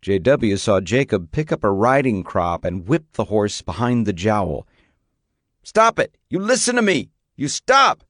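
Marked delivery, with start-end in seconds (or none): 5.6-8.0 furious yell. A narrator's reading. Boy screaming at the horse while whipping it, furious yell. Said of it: "he heard Jacob yell".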